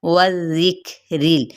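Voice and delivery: वज़िक्रिल slow, वाव with half-rounded lips; tajweed demo. Shown as a demonstration. Teacher models वज़िक्रिल slowly for the class. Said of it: "वाव होंठों की ना तमाम गुलाई के साथ".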